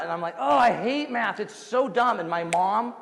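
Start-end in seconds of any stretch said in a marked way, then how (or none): 0.4-2.2 high, whiny mock freak-out; exaggerated high-pitched moan to mom. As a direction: act out an exasperated complaint. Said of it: "freaking out".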